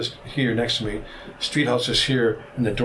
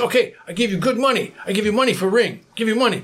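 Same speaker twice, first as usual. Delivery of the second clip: much higher imitated haggler's voice; insistent bargaining; 9 semitones higher than usual. Robed man tugs at the ring and offers money, high-pitched insistence. Trader urgently bids for the ring.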